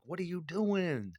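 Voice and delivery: high, slow, incredulous question; mock astonishment. Guy gaping at a rival's girlfriend, high slow disbelief. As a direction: stretch it out high in mock shock. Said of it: "You're like".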